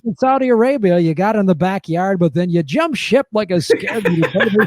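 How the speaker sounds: punchy host recap; lightly hammed-up announcer; game show voice. Host consoling the losing contestant, game show voice. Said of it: "when you do the game show voice".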